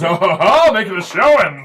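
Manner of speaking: mock impressed. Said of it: "he goes".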